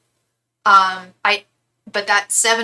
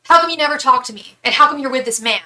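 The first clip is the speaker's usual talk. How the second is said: higher, louder mock angry shouting; retold enraged yell; 5 semitones higher, 6 dB louder than usual. Stranger confronting the model friend at the store, mock angry yell. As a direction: imitate a furious stranger demanding answers. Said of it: "this man comes up to her enraged".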